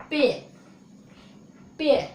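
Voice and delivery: "पे" with one long e; long e vowel. Shown as a demonstration. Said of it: "क्या बोलेंगे". ("पे" को हल्का लंबा खींचकर)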